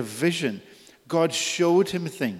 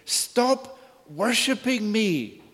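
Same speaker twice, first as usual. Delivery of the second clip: God's stern command; 7 semitones higher, slower than usual. Retold or imitated. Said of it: "He's basically saying".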